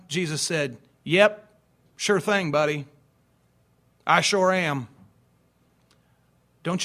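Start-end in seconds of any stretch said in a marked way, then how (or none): 1.0-4.9 casual translation. Acted. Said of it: "Let me translate that one".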